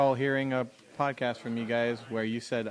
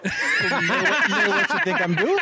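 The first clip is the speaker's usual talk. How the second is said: Cajun accent; 12 semitones higher, 6 dB louder than usual. Shown as a demonstration. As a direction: lay on the bayou Cajun accent. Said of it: "Do it".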